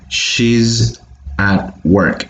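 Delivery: "She's at" joined as she-zat, the z carried into "at"; slow teacher demo of linking z to at; linked z sound. Shown as a demonstration. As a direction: link the z of "She's" straight into "at". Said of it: "We're connecting this z to the at".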